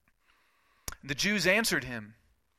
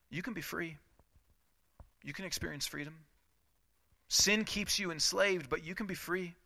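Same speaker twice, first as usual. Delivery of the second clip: tender appeal; 3 semitones higher, 4 dB quieter than usual. Real, not acted. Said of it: "tender appeal to listeners".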